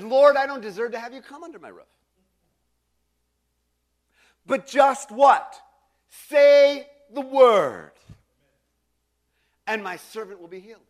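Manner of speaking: pleading centurion. Retold or imitated. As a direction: beg earnestly, then stretch the last words. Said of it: "He says".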